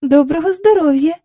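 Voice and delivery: put-on high, bright-pitched child's greeting; polite greeting. A narrator's reading. Girl greeting the formidable visitor, polite. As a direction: greet her courteously. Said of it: "вічливо сказала Джейн".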